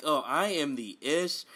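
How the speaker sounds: slow, self-satisfied imitation; put-on smugness, drawn out; mock smug. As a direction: imitate a smug star admiring himself. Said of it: "when he smiles all smug".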